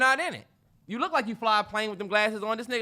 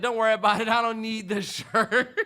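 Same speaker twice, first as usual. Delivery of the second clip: laughing it off; 2 semitones higher, 5 dB louder than usual. Retold or imitated. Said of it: "So I said".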